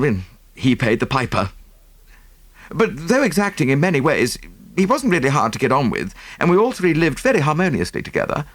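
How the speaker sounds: a hurried, earnest nephew laying out the facts; lightly voiced Havering. Havering tells his story.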